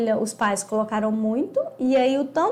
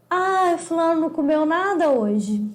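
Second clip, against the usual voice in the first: drawn-out, higher-pitched complaining whine; mock lament; 5 semitones higher, 4 dB louder than usual. Relative fretting that the child ate nothing, mock lament. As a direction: stretch out the 'ah' in exaggerated dismay.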